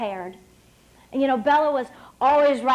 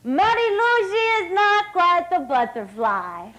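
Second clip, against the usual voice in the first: a hint of a Hungarian coach accent; mild mock coach voice; imitating coach; 5 semitones higher than usual. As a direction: quote the coach lightly, higher. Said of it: "Bella Caroli, used to say about me".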